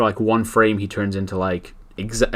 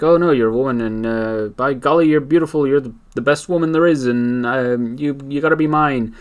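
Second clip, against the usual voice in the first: excited gushing; 5 semitones higher, 4 dB louder than usual. Retold or imitated. Villain voiced in retold comic.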